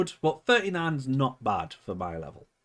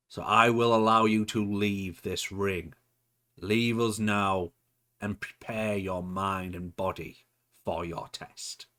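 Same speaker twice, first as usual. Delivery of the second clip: cryptic promo; slower than usual. Acted. Manager orders henchman to leave and prepare, cryptic promo. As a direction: send the henchman away with slow authority. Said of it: "cut a very cryptic promo".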